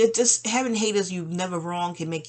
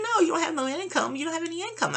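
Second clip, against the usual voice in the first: pitched up, gently correcting; higher voice for the attorney; 10 semitones higher, faster than usual. Retold or imitated. Tax attorney reassuring her client, pitched higher. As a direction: voice the sweet lawyer, raised.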